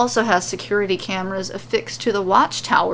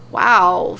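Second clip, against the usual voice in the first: flat wow; 5 dB louder than usual. Acted. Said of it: "Shayna says flatly".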